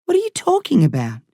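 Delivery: alarmed high question; alarmed boy. A narrator's reading.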